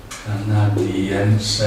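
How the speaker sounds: Canadiense stretched out slowly; slow model pronunciation. Shown as a demonstration. Teacher introducing the word for Canadian, slowly and deliberately. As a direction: say Canadiense at half speed for learners.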